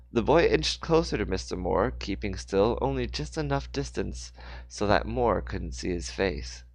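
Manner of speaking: phrase-by-phrase storyteller read, strong openings; story narration. A narrator's reading. Narrator telling of Mister Moore's fall, story narration. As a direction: narrate the action with deliberate pauses.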